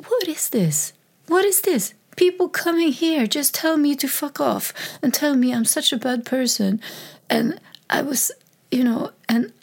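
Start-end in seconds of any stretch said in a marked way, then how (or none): 0.1-6.8 retold anger. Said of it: "I got totally pissed".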